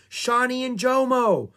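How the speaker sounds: put-on girl spotting the rangers, calling out with joy; excited cry. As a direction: call out to the returning rangers. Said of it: "cried Annie".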